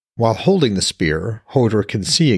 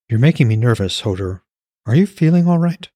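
nervous woman; 2 semitones higher than usual. Acted. Alara worried, voiced higher.

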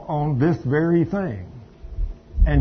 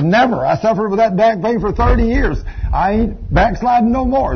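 retold emphatic refusal; 5 semitones higher, 4 dB louder than usual.

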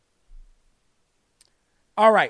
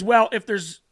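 building louder, slower punchline; 5 dB louder, slower than usual. Acted. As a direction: land the punchline with force. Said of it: "Pastor says".

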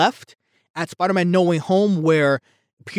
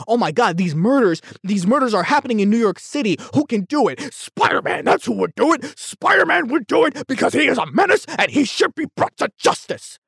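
high, far-off hysterical newsman voice, pitched way up; mock panicked announcer; 5 semitones higher than usual. Vlogger parodying a frantic anti-Spider-Man broadcast, high and hammed-up. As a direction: ham up a frantic city alarm crying that Spider-Man is a menace.

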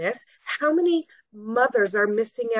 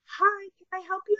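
high, chirpy put-on greeter voice; sing-song mock greeting; mimicking salon staff; 11 semitones higher, 3 dB quieter than usual. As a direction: play a bored receptionist calling from the back. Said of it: "people at the very back would be going".

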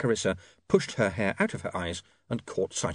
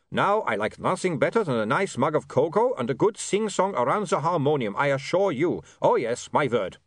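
put-on higher, earnest vampire accent; reformed vampire Otto; 5 semitones higher than usual. Otto assures William he has reformed, earnest vampire.

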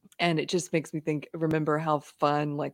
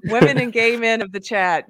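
calling out; 5 semitones higher, 9 dB louder than usual. Real, not acted. Calling out to the chat.

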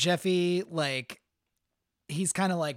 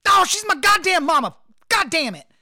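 higher, louder anguished blurt; blurted outburst; 9 semitones higher, 9 dB louder than usual. Acted. Jeffy blurts the truth to Eloise in a panicked outburst. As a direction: confess in a panicked burst.

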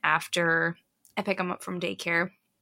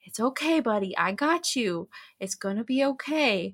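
reassuring big brother; 3 semitones higher than usual. Retold or imitated. Big brother comforting younger brother, retold.

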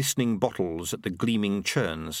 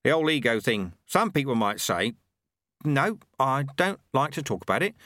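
raised, cheerful milkman voice; a proud tradesman talking shop; Ronnie the milkman; 5 semitones higher than usual. Acted. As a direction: Ronnie the milkman, pleased with his product. Ronnie brushing off his past.

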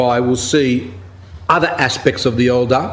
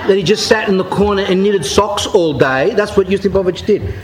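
laughing; 5 semitones higher than usual. Real, not acted. Preacher laughs while mocking the monk's story about the saint. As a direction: chuckle at the absurd claim.

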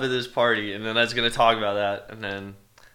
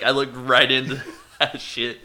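laughing; 3 semitones higher than usual. Retold or imitated. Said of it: "Matt's like".

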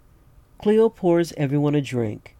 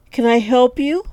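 higher, louder voice of a bar owner; waitress voice; 11 semitones higher, 6 dB louder than usual. Acted. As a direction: greet him as a brisk barmaid. Cleo greets the stranger.

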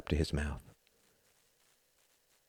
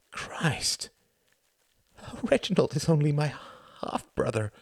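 higher, sudden exclamation; shocked realization; 8 semitones higher than usual. Acted. Tom realizing his brother is only half. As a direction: blurt out the realization.

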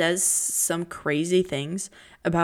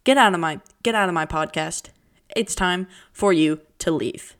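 louder playful get out; mock eviction; 5 dB louder than usual. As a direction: order them out, joking. Mock kicking out listeners.

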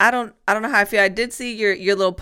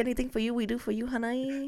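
put-on higher, soft, sing-along Asian-accented salon worker; hammed-up Asian accent, coaxing a customer; Asian nail lady accent; 3 semitones higher, 10 dB quieter than usual. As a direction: badly imitate an Asian nail technician. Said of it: "your local nail lady in the hood".

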